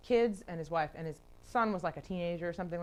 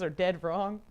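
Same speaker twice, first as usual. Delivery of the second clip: "dead" leaned on harder; "dead" punched out for emphasis; stress on DEAD; slower than usual. Acted. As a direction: put the weight on "dead". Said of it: "Emphasizing the word dead".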